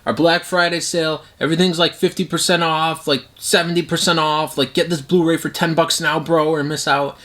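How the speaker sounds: a lightly voiced hype-man retailer; hyped sale pitch. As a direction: play a bro hyping a deal. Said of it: "Vinegar Syndrome would be like".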